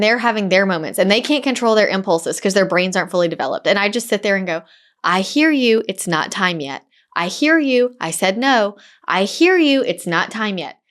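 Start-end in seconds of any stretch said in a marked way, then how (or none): 5.0-10.8 steady, patient repetition; calmly acknowledge, then hold the line; calm patient parent. Retold or imitated. Parent calmly refusing impulsive kids, patient and steady. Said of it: "the posture I'm taking".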